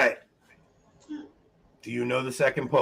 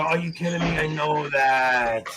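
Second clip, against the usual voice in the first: mock disbelief, last words stretched out; imitated exasperated realization. Host acts out players hearing the answer, mock exasperation. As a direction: mimic a player kicking themselves, dragging out the end. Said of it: "you're gonna go".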